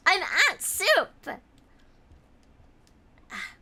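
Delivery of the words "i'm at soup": higher, louder, slow indignant meme voice; hammed-up meme line; meme quote. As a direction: proudly declare it like the meme. Quoting the soup-store meme.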